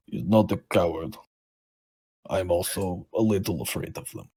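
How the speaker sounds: lightly voiced nervous character, halting; timid creature sidekick. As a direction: admit fear in a light character voice. Game master voices nervous creature.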